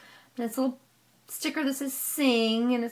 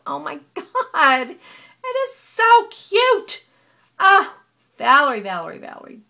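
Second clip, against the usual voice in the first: squealing delight; 6 semitones higher, 13 dB louder than usual. Real, not acted. Crafter squealing to viewers over Valerie's tag, thrilled. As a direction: shriek with joy at the tag.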